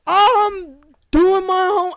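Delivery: high, slow, laughing reply; barely getting the line out through laughter; dazed son laughing. Retold or imitated. Comic replaying his dazed son line, laughing.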